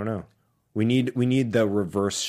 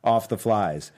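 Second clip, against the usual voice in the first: imitating a line repeated much slower; slow and emphatic; much slower than usual. Co-host mimicking a movie mentor repeating himself, slow and emphatic. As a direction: draw out each word for mock emphasis. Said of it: "slower. ... And more emphatically".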